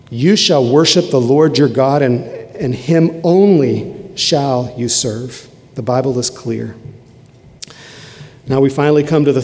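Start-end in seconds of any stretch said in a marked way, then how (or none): 0.1-5.5 the answer to the devil, slow and firm; Jesus firmly rebuking. Acted. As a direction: proclaim it like a sword against temptation. Jesus' answer repeated with force.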